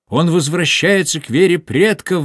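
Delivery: high, loud triumphant cry; exclaiming pastor. A narrator's reading. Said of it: "воскликнул пастор". (громкий высокий возглас пастора)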